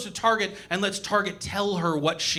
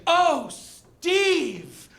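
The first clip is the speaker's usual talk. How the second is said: breathy moan; 9 semitones higher than usual. Retold or imitated. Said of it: "she's like".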